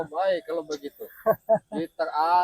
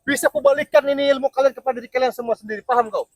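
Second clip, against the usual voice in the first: higher, louder menacing boast; loud threat; 6 semitones higher, 9 dB louder than usual. Acted. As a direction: threaten them like a villain. Threatening rival in a mock duel.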